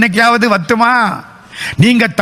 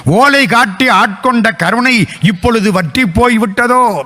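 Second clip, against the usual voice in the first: impassioned plea to God, slightly raised; acted tearful lament; 3 semitones higher than usual. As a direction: lament each lost grace in rhythmic, rising appeals. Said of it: "ஏன் தெரியுமா கண்ணீர் விட்டார்?". (இறைவனிடம் உருகிப் புலம்பும் குரல்)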